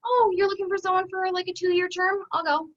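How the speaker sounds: husband casually taking a job abroad; breezy offer. Retold or imitated. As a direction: toss it off lightly, no big deal. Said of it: "He can go".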